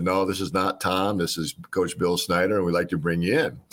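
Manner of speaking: flat, steady monotone coach; even keel voice. Retold or imitated. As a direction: keep it level and unbothered. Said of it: "just really even keel".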